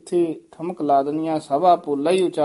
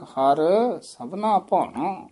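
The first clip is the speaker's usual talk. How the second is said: "ਹਰ", a pause, then "ਸਭਨਾ ਭਾਣਾ"; pause after har; slower than usual. Shown as a demonstration. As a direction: stop on "ਹਰ" before going on. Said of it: "ਹਰ ਤੇ ਯਮਕ".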